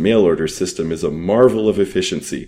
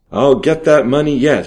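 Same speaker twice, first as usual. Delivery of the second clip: determined; 7 semitones higher, 5 dB louder than usual. A narrator's reading. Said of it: "he told himself".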